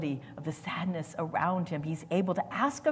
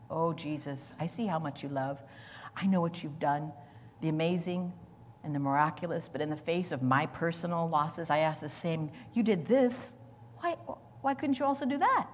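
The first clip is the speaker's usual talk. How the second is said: soft prayer; 4 semitones lower, 6 dB quieter than usual. Acted. Preacher voicing his own prayer.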